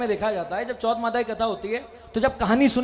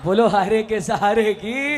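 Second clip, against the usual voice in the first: crowd call; slower than usual. Real, not acted.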